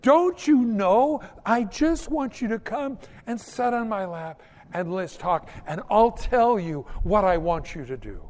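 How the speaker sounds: lightly voiced loving Father calling his child close; gentle father voice. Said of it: "see our Heavenly Father look at us going".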